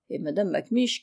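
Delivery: usual speaking voice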